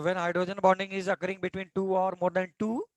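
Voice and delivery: slow, even dictation pace for notes. Acted. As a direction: spell it out slowly so students can write. Dictating definition once more. (धीमी गति से लिखवाना)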